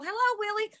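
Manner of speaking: high, sweet hello to a ghost; sing-song greeting. Retold or imitated. Greeting the ghost Willie, high and sing-song. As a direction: call out to him in a lilting voice. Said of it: "I go".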